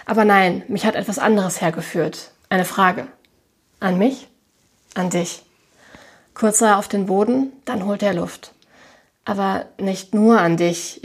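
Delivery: reading a novel aloud with light character voices; story narration. A narrator's reading. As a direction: tell the story to listeners. Liest den Roman vor. (vorgelesene Erzählung)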